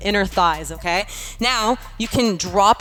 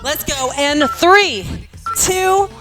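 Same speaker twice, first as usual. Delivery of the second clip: lively fitness coach cueing class; aerobics instructor. Acted. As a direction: coach the class, upbeat and encouraging. Leads workout class.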